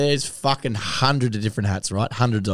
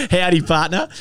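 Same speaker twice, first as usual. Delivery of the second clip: howdy, partner; 8 semitones higher, 6 dB louder than usual. Pretend. Trying on a cowboy hat.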